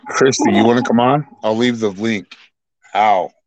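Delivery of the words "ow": pained ow. Real, not acted. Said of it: "I just bit my tongue".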